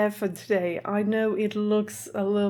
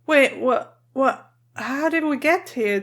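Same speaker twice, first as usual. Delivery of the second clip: startled; 4 semitones higher than usual. Real, not acted. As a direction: caught off guard. Surprised by unexpected episode.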